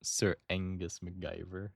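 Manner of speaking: half-hearted attempt at a Scottish accent; botched, understated Scottish lilt; failed Scottish accent. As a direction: try a Scottish accent and miss. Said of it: "That's not a Scottish accent".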